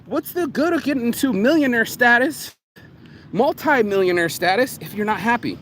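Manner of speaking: incredulous, calling him out; disbelieving. Retold or imitated. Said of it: "And I was just like".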